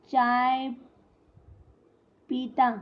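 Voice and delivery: long pause between "चाय" and "पीता"; word-by-word, with a big gap after "चाय"; halting pauses. Shown as a demonstration. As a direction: stretch "चाय", stop, then say "पीता". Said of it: "यानी कोई रुक कर हम".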